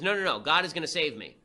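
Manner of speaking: a lightly acted stubborn no; stubborn refusal. The religious guy turning down the boat, mock refusal. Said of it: "He says".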